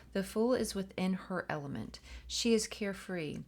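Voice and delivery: expressive, measured read-aloud; guidebook reading. A narrator's reading. Host reading the tarot guidebook to viewers, expressive read-aloud. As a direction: read it out clearly to listeners.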